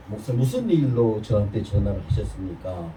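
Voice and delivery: calm, courteous formal question; polite formal tone. Shown as a demonstration. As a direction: ask it gently and respectfully. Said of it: "내가 이렇게 금방지게 얘기한 거 아니에요". (공손하고 차분한 말투)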